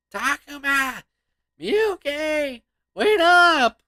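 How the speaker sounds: high, loud call after friends running ahead. Acted. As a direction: shout to make them stop.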